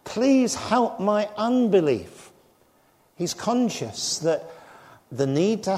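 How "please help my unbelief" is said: crying out. Retold or imitated. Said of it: "The man cries out".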